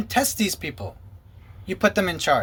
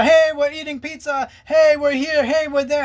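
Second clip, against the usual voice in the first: higher, louder, hammed-up chirpy "Hey"; mocking cheery vlogger; 10 semitones higher, 5 dB louder than usual. Pastor filming himself for live video, mock chirpy cheer. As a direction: parody his bubbly live-stream greeting.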